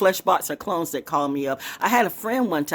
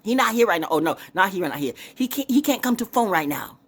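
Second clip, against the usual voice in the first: higher, louder mock Asian accent on the phone; Asian accent impression; 7 semitones higher, 4 dB louder than usual. Caller hears an Asian voice answer, mock Asian accent. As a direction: play the Asian voice answering the call, brusque. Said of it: "some Asian person on the other end".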